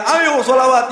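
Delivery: loud, high call to sing along; a Sheikh rallying the congregation, shouting; imitated shout. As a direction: call the crowd to chant sholawat. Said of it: "teriak-teriak".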